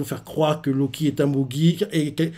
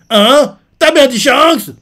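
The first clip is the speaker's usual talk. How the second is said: much higher, loud mock shout; Luffy shouting; 11 semitones higher, 9 dB louder, slower than usual. Luffy reacts to Shanks' name, loud high yell. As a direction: yell it in excited disbelief. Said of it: "Lui fait".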